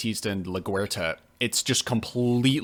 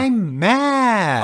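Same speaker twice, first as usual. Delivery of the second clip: higher, louder flat declaration; mad; 10 semitones higher, 6 dB louder than usual. Real, not acted. Cohost confirming he is mad, a louder declaration. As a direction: answer with real annoyance, punchy. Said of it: "are you mad about that?".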